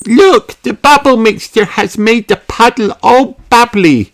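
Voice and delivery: put-on high excited girl voice; excited cry. A narrator's reading. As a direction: cry out with delight. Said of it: "cries Peppa".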